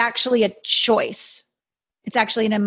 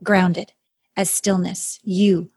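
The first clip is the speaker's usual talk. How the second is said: airy breathy mystical healer. Acted. Guided stillness meditation.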